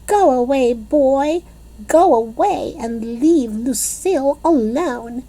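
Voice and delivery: put-on high shooing shout at a boy; girl shouting. A narrator's reading. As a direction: shoo him off. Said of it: "she shouted".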